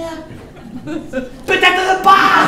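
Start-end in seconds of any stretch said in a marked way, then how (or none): 1.5-2.5 high, loud shouted kicker; punchline yell. Acted. Comedian undercutting hope about the crisis, yelled high. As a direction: burst out high against the reassurance.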